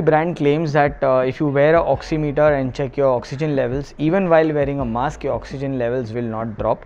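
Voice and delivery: cloth mask over mouth; muffled behind fabric mask; through a face mask. Real, not acted. Seen 5: Black cloth mask covers mouth and nose throughout; it is off before and after.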